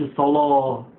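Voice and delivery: الصلاة with a heavy, dark "law" ending; thickened lam. Shown as a demonstration. Teacher showing what to avoid, heavy lam. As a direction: say الصلاة with a backed, emphatic lam. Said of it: "مش متفخمة".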